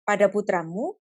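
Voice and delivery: very slow, drawn-out tender words; God gently naming the beloved son; slow and gentle. Acted. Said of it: "ngomongnya itu pelan-pelan gitu".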